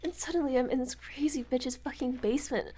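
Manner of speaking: lightly voiced captive girl, crying and begging; terrified captive. Kidnapped girl begs the visitor to free her, tearful. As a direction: beg for release through panic.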